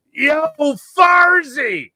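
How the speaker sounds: lightly voiced hail across the piazza; a mild mock shout of Yo, Farzy; mock call out. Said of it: "I just hear".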